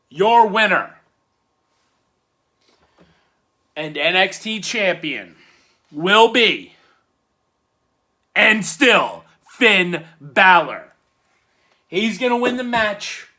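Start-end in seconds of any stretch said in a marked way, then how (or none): 0.1-10.9 ring announcer call. Pretend. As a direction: build the suspense like the arena announcer. Ring-announcer style title call.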